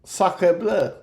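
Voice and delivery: a touch of mock French; French accent. Droid now French for the players, in a light French accent. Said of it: "Make it French".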